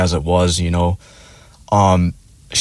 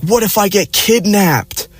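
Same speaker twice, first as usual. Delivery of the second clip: high, drawn-out girlfriend impression; mock alarm; 11 semitones higher, slower than usual. Girlfriend fretting to boyfriend who walked ahead, mock alarm. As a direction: overdo her worry in a slow, high voice. Imitates girlfriend complaining at the car.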